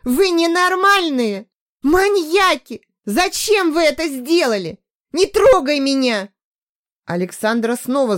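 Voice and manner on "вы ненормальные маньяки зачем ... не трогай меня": much higher, louder furious yell; frantic scream; hysterical shout. A narrator's reading. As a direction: hurl it at her captors. Hysterical girl fights off Maria.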